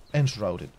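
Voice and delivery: "Enshrouded" repeated as "ens-RAU-dit", Spanish-accented; pronunciation demo. Shown as a demonstration. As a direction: repeat "Enshrouded" by itself, stressing "shroud". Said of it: "pero se pronuncia Enshrouded". (repetir "Enshrouded" como "ens-RAU-dit", con acento español)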